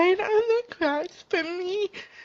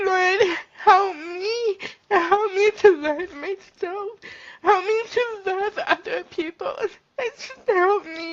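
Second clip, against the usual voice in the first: tearful prayer. Real, not acted. Woman praying for help to love herself, crying. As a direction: beg the Lord through tears.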